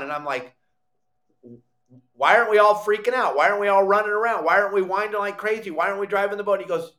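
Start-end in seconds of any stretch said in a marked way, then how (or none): 2.1-6.6 frantic panic. Retold or imitated. Retelling his own panic, fast.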